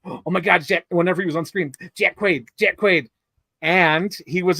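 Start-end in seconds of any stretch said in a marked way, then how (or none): 0.0-3.1 starstruck gasping. Retold or imitated.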